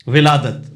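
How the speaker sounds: ولادت opening with a clear short i, vi-LAA-dat; zer under waw. Shown as a demonstration. Teacher showing where the zer goes, careful i vowel. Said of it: "اس کے نیچے زیر آئے گی".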